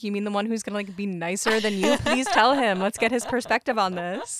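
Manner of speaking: loud, eager mock pleading; teasing comeback. Kid talking back to a threatening parent, teasing comeback. Imagined mocking reply to parent.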